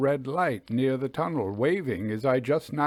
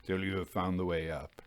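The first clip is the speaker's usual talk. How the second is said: lower, much softer, hurried; peculiar low voice; 7 semitones lower, 9 dB quieter, faster than usual. A narrator's reading. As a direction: hush it quickly. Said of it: "in his peculiar low voice".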